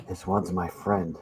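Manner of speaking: muffled through hands over face. Shown as a demonstration. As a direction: Mando line muffled behind hands. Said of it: "I put my hands over my face".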